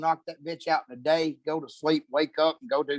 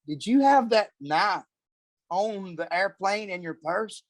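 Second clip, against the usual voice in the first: higher, slow, stunned disbelief; incredulous question; 5 semitones higher than usual. Retold or imitated. Husband retelling finding his wife's knife after the flight, slow stunned disbelief. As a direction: ask it like you can't believe your ears. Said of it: "I'm like".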